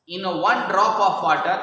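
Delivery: slow, word-by-word dictation for students to copy. Acted. Teacher dictating a question to the class, slow and measured. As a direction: spell it out slowly so the class can write.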